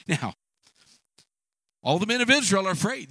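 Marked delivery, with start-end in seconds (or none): 1.8-3.1 emphatic. Real, not acted. Preacher stressing fear.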